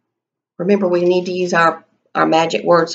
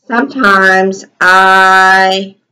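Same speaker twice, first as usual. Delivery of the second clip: slow dictation; 6 dB louder, much slower than usual. Shown as a demonstration. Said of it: "teacher dictating while writing".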